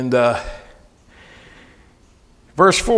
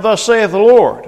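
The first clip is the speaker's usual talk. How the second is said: slow proclamation; 4 semitones higher, 5 dB louder, slower than usual. Acted. Crying out the Lord's word.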